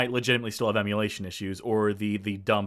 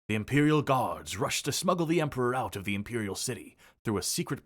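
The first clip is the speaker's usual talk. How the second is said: epic narration. Acted. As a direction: read it like a game intro. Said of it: "my own narration there. I have such gravitas".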